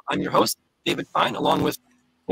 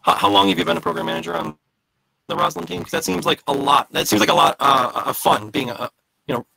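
robot voice; 4 semitones higher than usual. Real, not acted. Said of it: "Someone mentioned robot voice".

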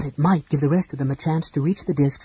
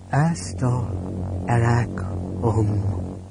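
spell incantation; 3 semitones lower, much slower than usual. A narrator's reading. Raistlin casts spell.

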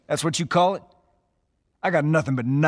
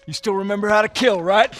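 urgent call; 9 semitones higher, 5 dB louder than usual. Acted. Under attack, rallying brother.

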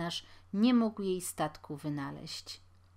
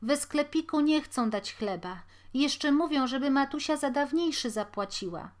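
sad out of breath; 7 semitones higher, 5 dB louder than usual. A narrator's reading. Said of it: "smutny i zadyszany Franek".

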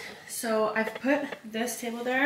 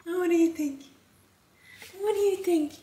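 excited; 7 semitones higher than usual. Real, not acted. Opening a gift on camera.

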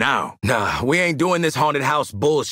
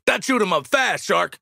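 combat callout; 5 semitones higher than usual. Acted.

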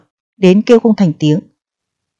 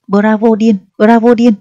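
rising, louder cheer of bravo; 4 semitones higher, 3 dB louder than usual. Acted. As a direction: cheer him on, building. Crowd cheering the fool.

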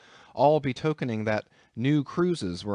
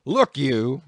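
roared; 3 semitones higher, 7 dB louder than usual. A narrator's reading. Captain threatening Queequeg, loud roar. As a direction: roar it at the cannibal. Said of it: "roared the captain".

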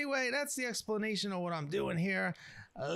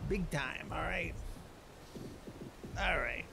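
lightly put-on swaggering streetwise narrator; a hint of a cocky wasteland chef telling a legend; Ghost Chef voice. Explaining the legend of this guy, a lightly voiced cocky chef. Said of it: "I'm just basically doing it as his voice".

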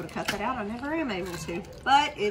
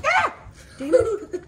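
frustrated yell; 13 semitones higher, 7 dB louder, much slower than usual. Real, not acted. Chips spilled everywhere.

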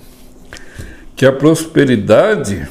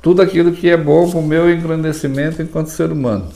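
prayer; 2 semitones higher than usual. Shown as a demonstration. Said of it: "Então reza".

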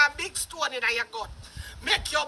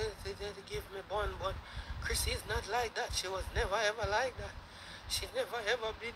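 imitating him much lower and much softer, timid; mock scared voice; 8 semitones lower, 12 dB quieter than usual. Mocking the guy's nervous video plea, low and soft. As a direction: mumble it small and nervous, hamming up the fear. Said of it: "you can see say you're scared".

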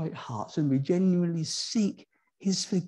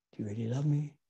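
softer, gentler second asking; softer repeat; 3 semitones lower, 6 dB quieter, faster than usual. Acted. Jesus asking Peter a second time, softer. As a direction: ask again, softly and tenderly.

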